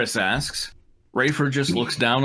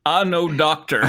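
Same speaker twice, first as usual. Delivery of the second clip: "I know, doctor" run together as one phrase; no comma pause; 3 semitones higher than usual. Shown as a demonstration. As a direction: read "I know, doctor" without pausing before doctor. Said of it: "without a comma for direct address".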